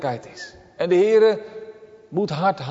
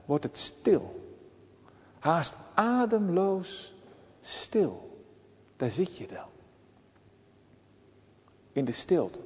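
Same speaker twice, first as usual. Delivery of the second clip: much softer, slow and breathless; hushed; 8 dB quieter, slower than usual. Acted. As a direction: let the words sink into silence. Evoking silence in the fish. (fluisterend stil, traag en ademloos)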